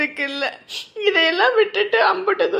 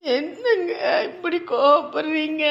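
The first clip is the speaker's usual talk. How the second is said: slow, crying reproach; hurt and tearful. Acted. Wife asking her husband why he snaps, crying. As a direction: ask why he is angry, through tears.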